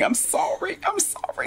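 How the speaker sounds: high whispered apology; whispering. Acted. Mock apology.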